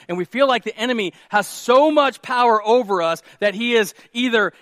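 impassioned preaching. Real, not acted. Preacher to congregation about the enemy's power, impassioned preaching. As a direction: preach it with urgency.

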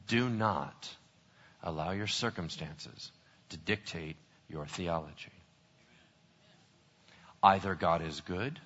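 low, hushed, grave sermon voice; sober, quiet pulpit delivery; solemn preaching. Real, not acted. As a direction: let the bad news land softly. Preacher gives solemn exhortation.

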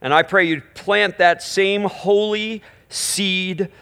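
slow hushed prayer. Acted. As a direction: pray it out gently. Prayer continues.

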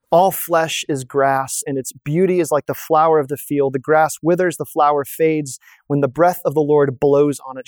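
solemn, measured proclaiming cadence; scripture reading. Acted. Preacher reading Isaiah to his congregation, proclaiming solemnly. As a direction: read it like a herald calling from a mountaintop.

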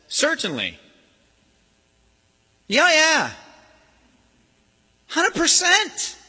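high mocking yes, drawn out slowly; high, slow mock-agreeing sneer; sneering devil. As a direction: sneer it like a smug tempter.

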